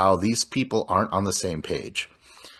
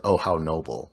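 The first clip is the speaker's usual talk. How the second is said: low, mock-calm reply; oddly calm; 5 semitones lower than usual. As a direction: imitate his unruffled answer in a lower pitch. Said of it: "he's oddly calm".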